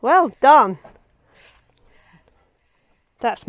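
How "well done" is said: laughing. Real, not acted. Congratulating through laughter.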